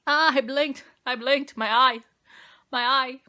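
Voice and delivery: loud, high yelps of real pain; ouch, got my own eye; pained outcry. Real, not acted. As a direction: cry out as the eye stings. Eyeliner poked into her eye.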